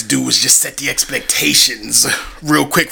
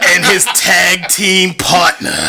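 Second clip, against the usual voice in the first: ring announcer. Acted. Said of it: "fire introduction".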